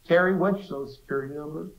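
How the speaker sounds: mother in Arkansas asking her son, in a bad imitation of her Arkansan accent. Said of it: "Arkansan accent".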